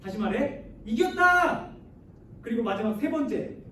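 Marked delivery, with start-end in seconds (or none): 0.8-1.7 high, loud cry of triumph; raised, exultant victory call; victory shout. Acted. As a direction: shout that the battle is won. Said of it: "전쟁에서 승리했을 때 이 외치다라는 표현을".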